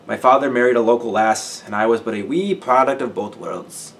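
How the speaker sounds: hammed-up Welsh lilt; playful put-on Welsh accent; overdone Welsh accent. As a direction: lay the Welsh accent on thick. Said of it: "his intentionally overdone accent".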